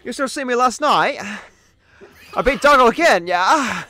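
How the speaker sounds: put-on loud, high English accent slipping into German; bad English accent. Streamer brags of beating friend, botched English accent. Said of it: "sound like someone who's moved over from Germany".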